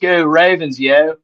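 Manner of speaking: put-on playful Baltimore Dundalk accent. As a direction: toss off a Dundalk Baltimore cheer. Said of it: "I'm just doing a Dundalk accent".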